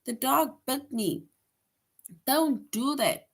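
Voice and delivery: high-pitched demo shout, easing off; exclamatory shout. Shown as a demonstration. Teacher showing students an exclamatory sentence, high mock shout. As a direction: cry out like you've just been bitten. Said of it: "where you shout".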